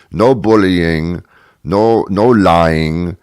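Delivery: slow, deliberate pronouncement; mock papal decree; slow emphatic decree. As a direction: lay down the rule, slowly. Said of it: "I want you to stop calling people names".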